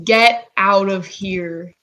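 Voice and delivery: slow drawn-out goblin growl. Acted. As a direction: drag it out like a goblin. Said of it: "in the goblin tongue".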